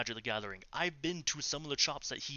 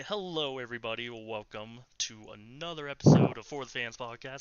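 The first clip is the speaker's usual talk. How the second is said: podcast intro voice; 6 dB louder than usual. Pretend. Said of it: "if it wasn't copyright, I would play".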